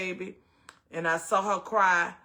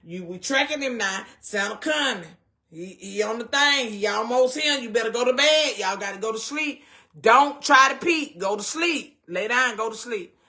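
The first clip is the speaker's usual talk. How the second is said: put-on hurrying kids to bed; 2 semitones higher, 5 dB louder than usual. Mother hurrying her kids to bed on Christmas Eve, loud and urgent. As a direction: shoo them off to bed before Santa lands.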